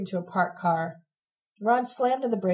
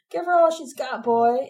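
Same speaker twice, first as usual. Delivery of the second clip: high jeering shout; shouted taunt; 5 semitones higher, 4 dB louder than usual. A narrator's reading. Rich boys mock Ron's driving, high jeering shout. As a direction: yell it up high, mocking.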